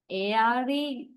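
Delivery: A R E named as three separate letters; spelled letter by letter. Shown as a demonstration. Teacher showing the class the spelling, A R E spelled out. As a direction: spell out A R E, one letter name at a time. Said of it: "that is the spellings".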